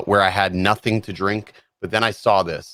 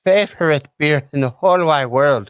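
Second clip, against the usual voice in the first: higher, louder gushing over the beer; 6 semitones higher, 4 dB louder than usual. Real, not acted. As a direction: rave about it like a treasure. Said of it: "this by far has to be my favorite".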